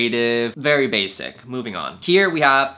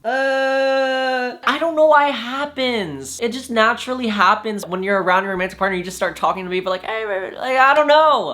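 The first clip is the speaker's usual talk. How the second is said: put-on much higher, cutesy baby talk; 11 semitones higher, 3 dB louder than usual. Shown as a demonstration. Showing how she talks to her partner, high baby voice. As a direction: coo it like you're talking to a baby. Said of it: "I talk in a baby voice".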